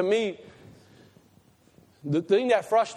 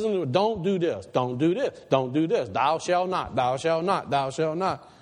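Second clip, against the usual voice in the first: voice of God commanding; 2 semitones lower than usual. Acted. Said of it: "He tells me, he says".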